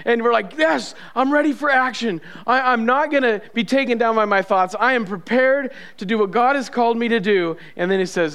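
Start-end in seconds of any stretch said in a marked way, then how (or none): 0.6-7.6 mildly hyped, ready for the fight; rally yourself for battle; lightly acted fighting resolve; pumped up. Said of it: "you're all pumped up".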